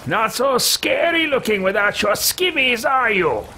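high, sneering taunt; mocking taunt. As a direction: jeer at the defeated foe. Taunts stripped cultist body.

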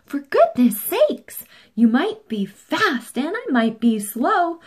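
loud high scolding; exasperated yell. Acted. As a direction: scold the squabbling cars. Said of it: "yelled Blue".

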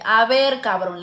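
loud sharp scolding yell; angry shout. Retold or imitated. Mother yelling at son for hitting grandma, angry shout. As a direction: snap at him in anger. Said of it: "le grité".

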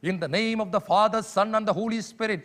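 slow, drawn-out liturgical blessing; intoned liturgy. Retold or imitated. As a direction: chant it slowly like a priest opening Mass. Priest begins Mass, intoned liturgy. (കുർബാന തുടങ്ങുന്ന വൈദികനെപ്പോലെ സാവധാനം)

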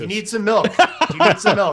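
laughing. Real, not acted. Teasing the spicy eater.

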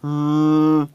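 a drawn-out hum instead of an answer; Pete's grunt. A narrator's reading.

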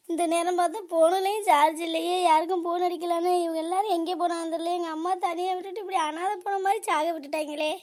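acted grieving complaint; mild wail of helplessness; tearful lament. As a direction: mourn aloud, a touch hammed-up. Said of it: "ஏன் இப்படி அழுதுகிட்டு இருக்க".

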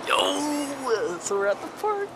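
hushed whisper at the park. Real, not acted. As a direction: whisper it so nobody hears. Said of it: "Why are you whispering?".

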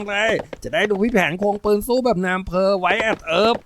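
put-on high, chattering kid voice; high-pitched boyish wishing; excitable little boy. A narrator's reading. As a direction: prattle like a cowboy-mad young boy.

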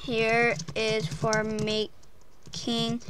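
very slow, stretched-out words; a hammed-up slow-motion thank you; slowed dedication. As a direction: draw every word out like a grand dedication. Drawn-out dedication.

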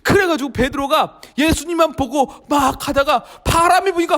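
ordinary talk, nothing marked

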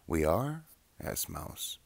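gentle read-aloud voice with lively character voices; children's story reading. A narrator's reading. Reading a childhood book aloud, storyteller voice. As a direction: read it like a bedtime picture book.

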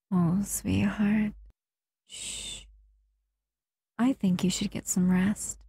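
slow hushing whisper; soothing whisper. Acted. Lulling listener to sleep.

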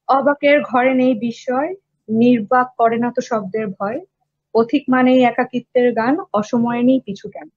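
quick, spoken recital of the verse; poem recitation. Shown as a demonstration. Poet reading his lines to the host, quick spoken recital. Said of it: "এটা next line ছিল হচ্ছে".

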